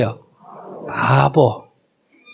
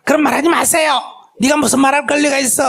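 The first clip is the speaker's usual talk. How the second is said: bossy retort; 8 semitones higher, faster than usual. Acted. Bossy wife silencing husband.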